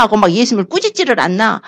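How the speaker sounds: ordinary delivery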